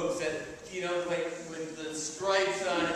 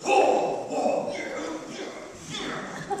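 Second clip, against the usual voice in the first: breathy, louder wonder; amazed crowd; 11 semitones higher, 4 dB louder, much slower than usual. Retold or imitated. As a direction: marvel along with the crowd.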